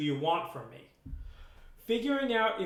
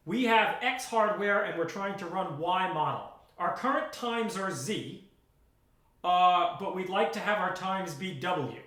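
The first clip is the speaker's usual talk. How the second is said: model email read. Shown as a demonstration. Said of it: "Here's what your first email should have been".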